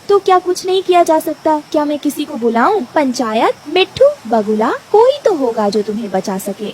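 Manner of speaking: lightly anxious bird, searching for help; anxious Rano bird. Acted. Rano seeking someone to save tree, anxious.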